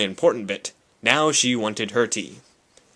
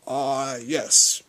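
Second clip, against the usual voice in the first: doubtful; 2 semitones higher than usual. Acted. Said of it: "he said doubtfully".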